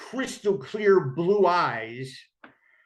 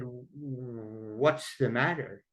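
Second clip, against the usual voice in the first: slow, hushed, lower question; gentle concern; 4 semitones lower, 6 dB quieter, much slower than usual. Retold or imitated. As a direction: ask softly and carefully, drawing the words out. Gently asking a crying man.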